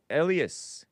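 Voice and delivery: "Elias" said EL-ee-us, first syllable stressed; first pronunciation guess. Shown as a demonstration. Host unsure of caller's name, settling on "Elias" as EL-ee-us. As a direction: pronounce "Elias" EL-ee-us. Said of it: "How do you pronounce".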